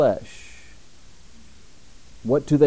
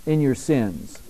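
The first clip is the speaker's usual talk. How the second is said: solemn warning; 5 semitones higher, 3 dB louder than usual. Retold or imitated. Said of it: "Another place he said".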